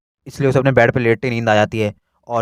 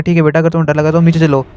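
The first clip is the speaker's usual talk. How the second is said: higher, louder mother giving in; gentle mother; 6 semitones higher, 7 dB louder than usual. Acted. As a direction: mom telling scared son to come downstairs. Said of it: "मिस्सो की mom कहती". (माँ की ऊँची नरम आवाज़)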